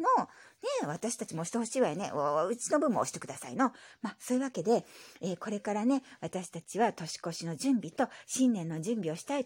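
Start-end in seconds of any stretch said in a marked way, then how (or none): 2.1-3.7 lightly voiced old grandpa; grumbly old grandpa reply; old man voice. Grandpa character voice.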